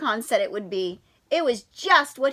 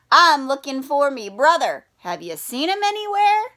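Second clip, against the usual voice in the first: lightly voiced little leprechaun, a touch of Irish; a small polite leprechaun, gently done; tiny leprechaun voice; 3 dB louder than usual. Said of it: "said a tiny voice".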